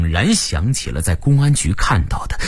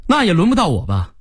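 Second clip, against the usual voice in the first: high-pitched protest; loud retort; 9 semitones higher than usual. A narrator's reading. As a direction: protest back at the boss. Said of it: "我大声地回道". (高声反驳)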